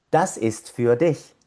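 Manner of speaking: "Das ist für dich" joined up, still unhurried; connected pronunciation model. Shown as a demonstration. Teacher reading the whole expression, now linked and measured. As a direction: run the words together, für said "fü-a". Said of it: "toda la expresión se lee".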